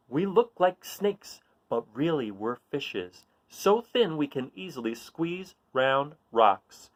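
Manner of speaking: lively read-aloud voice for a picture book; reading a riddle book aloud. A narrator's reading. Reading a riddle page to children, playful read-aloud.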